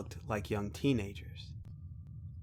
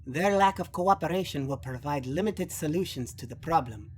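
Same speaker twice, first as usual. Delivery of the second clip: lightly voiced youth, a little higher; slightly higher, formal young voice; young Odin, grave; 3 semitones higher than usual. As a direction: deliver a grim assessment as a young noble.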